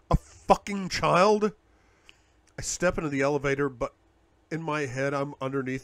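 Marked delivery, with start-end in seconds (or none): 0.1-1.5 slow, loud disbelief; incredulous outburst. A narrator's reading. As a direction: spit it out in disbelief.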